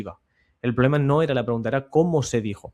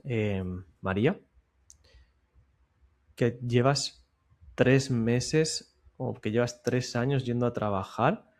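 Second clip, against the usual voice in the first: slow, softened question with a long pause before it; slower than usual. Shown as a demonstration. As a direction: take your time and let it sink in. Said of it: "Fíjate cómo cambia por completo la pregunta". (pregunta lenta, en voz baja, con pausa previa)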